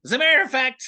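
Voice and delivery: Usopp voice. Pretend. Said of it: "Usopp talking about New Zealand".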